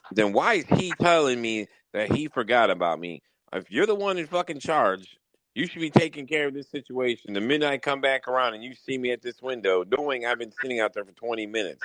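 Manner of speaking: a mild mock of his angry rant at the manager; retold angry rant. Retelling how he yelled at the Brahms manager, mildly heated. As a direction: replay the complaint with some heat. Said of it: "that's what set me off".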